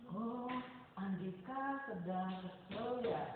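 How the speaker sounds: slow, soft, caring question; gently mirror the child's feeling; empathic reflecting. Shown as a demonstration. Teacher reflects the pupil's feeling: slow soft empathy. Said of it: "Andika sudah paham ini".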